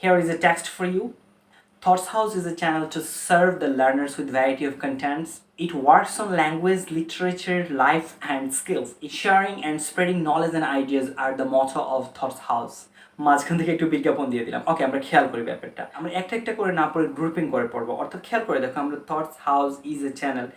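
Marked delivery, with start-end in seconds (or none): 0.0-12.8 slow, deliberate read-aloud of a text; demo reading. Shown as a demonstration. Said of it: "Let me demonstrate". 19.1-20.5 slow, each word separate; word by word reading. Shown as a demonstration. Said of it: "আমরা normally এইভাবে পড়েই অভ্যস্ত".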